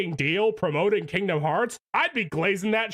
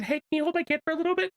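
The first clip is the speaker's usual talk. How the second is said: retold friend; 8 semitones higher, much faster than usual. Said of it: "they literally said".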